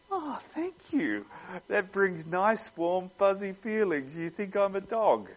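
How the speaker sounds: high, sarcastic thank you; mock gratitude. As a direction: gush in fake delight at being called a dog. Mock grateful reply to insult.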